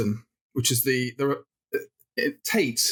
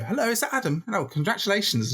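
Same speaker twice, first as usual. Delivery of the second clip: phone caller; 7 semitones higher than usual. Retold or imitated.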